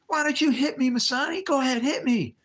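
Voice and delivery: high, loud barking drill instructor; drill sergeant yell. Retold or imitated. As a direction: scream it in the recruit's ear. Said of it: "He was yelling and screaming in my ear".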